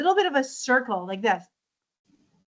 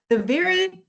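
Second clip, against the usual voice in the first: talking with tongue out; tongue sticking out; 4 semitones higher than usual. Shown as a demonstration. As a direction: speak with tongue poking out. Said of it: "sticking my tongue out".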